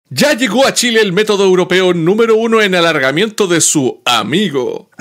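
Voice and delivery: over eager infomercial pitch. Pretend. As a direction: sell it like a late-night TV ad. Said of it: "como infomercial".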